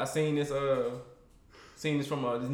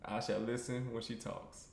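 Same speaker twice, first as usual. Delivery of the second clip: mock sermon; much slower than usual. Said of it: "hit y'all with a quick sermon".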